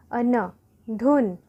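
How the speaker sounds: धुन built slowly sound by sound; slow blending. Shown as a demonstration. Teacher to pupils, slowly blending धुन. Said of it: "ध में हर्षों की मात्रा धु".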